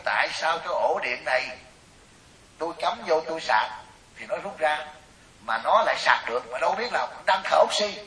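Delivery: mildly indignant mock complaint; retold scolding. Woman protesting about an unplugged charger, retold scolding. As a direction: imitate a woman grumbling in protest. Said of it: "bà chửi liền, bà nói".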